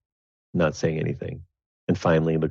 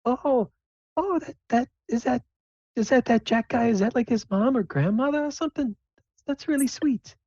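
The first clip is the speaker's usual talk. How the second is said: very high falsetto, curious and fussy; sweet mom. Acted. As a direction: coo like a mother who's charmed. Alyssa's mom voiced by game master.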